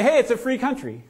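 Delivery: put-on bratty kid. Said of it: "kids might say".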